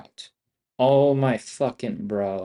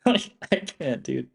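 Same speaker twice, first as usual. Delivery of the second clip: laughing; 3 semitones higher than usual. Real, not acted. Laughing in disbelief.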